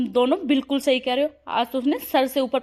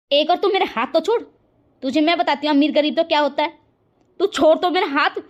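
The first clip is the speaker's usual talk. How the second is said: higher, heated demand to let go; angry quarrel; 4 semitones higher, 4 dB louder than usual. Acted. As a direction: snap at her to let go of your hand. Quarrel, grabbing each other's hands.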